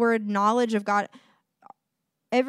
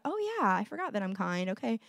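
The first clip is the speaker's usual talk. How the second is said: put-on child's realization; 6 dB quieter than usual. Voices child remembering, chastened.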